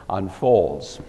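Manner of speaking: normal talking voice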